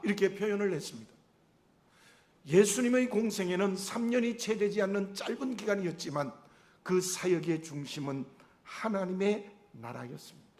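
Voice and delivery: ordinary talk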